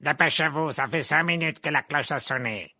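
put-on loud, testy bark from an old witch; barked order. A narrator's reading. Old witch teacher to late students, barked. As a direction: bark it out, loud and far from the narrator's voice. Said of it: "aboya-t-elle".

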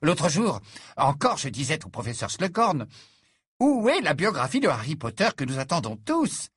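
lightly voiced gushing biographer; effusive biographer. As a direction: lift it a touch, fawning over a celebrity. Narrator voices effusive Worple.

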